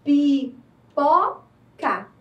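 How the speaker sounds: pipoca stretched into very slow, separate syllables pi-po-ca; patient teacher sounding out Pipoca. Shown as a demonstration. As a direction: drag each syllable of Pipoca apart. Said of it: "Vamos ler novamente".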